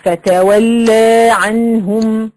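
wrongly stretched final aa in فتول; exaggerated long vowel at the end of فتول; over-lengthened madd. Shown as a demonstration. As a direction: chant فتول عنهم slowly, holding the madd too long. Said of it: "لو زودتها أقول إيه".

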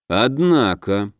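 slow, musing mutter; thoughtful mutter. Acted. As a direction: muse on it slowly to yourself. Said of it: "задумчиво пробормотал Самди".

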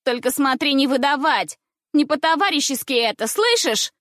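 put-on high, insistent girl's warning; warning schoolgirl. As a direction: warn her not to tell. Girl voiced warning.

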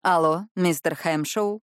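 a slow, rasping stranger on the phone; hoarse male voice. A narrator's reading. Stranger on the phone greets her, slow and rasping. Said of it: "сменился на хриплый голос".

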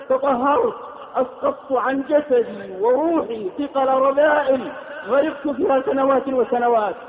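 ordinary talk, nothing marked

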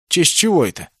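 high indignant protest; indignant question. A narrator's reading. Naoki objecting to Masaona's plan, indignant high question. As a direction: object sharply. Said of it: "возмутился Наоки".

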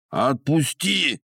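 high slow nasal moan; moaning through pinched nose. Acted. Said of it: "промычал хозяин схватишек".

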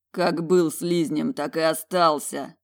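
slow scornful grind; gritted through teeth. Acted. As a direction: spit it out slowly, through the teeth. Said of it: "процедил он".

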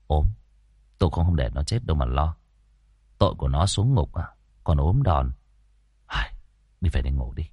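put-on low, calm young exorcist explaining patiently; a composed young master talking his partner down; young master's sighing voice. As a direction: sigh it out, steady and unhurried. Tẩy reassures Muôn Phọt at the wall.

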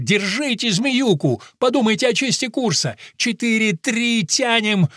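shouting encouragement mid-tug; cheering shout. Acted. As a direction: urge the team on at full voice. Cheering team in tug-of-war.

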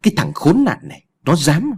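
put-on a father roars at the boy who dared; roaring in rage. A narrator's reading. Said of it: "Ông Phán thì gầm lên". (gầm lên giận dữ, cao và to)

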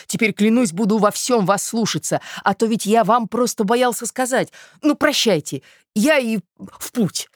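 eager, high-pitched gratitude; delighted. A narrator's reading. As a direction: promise in a rush of delight. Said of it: "вскричал восхищённый Мозгляков".

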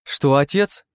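high, loud indignant cry; a girl's startled outrage at her father's demand; shocked daughter. Acted. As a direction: recoil in disbelief at your father.

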